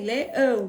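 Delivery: leão in two beats, le-ão; chunked "Leão", le and ão apart; split into syllables. Shown as a demonstration. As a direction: break "Leão" after the le. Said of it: "Quantos pedacinhos tem?".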